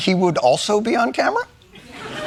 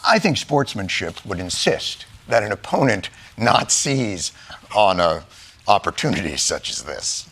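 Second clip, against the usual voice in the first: low, fading mock old-man mumble; imitating Biden; 4 dB quieter than usual. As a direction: trail off into a weak croak. Mocking Biden's fading delivery.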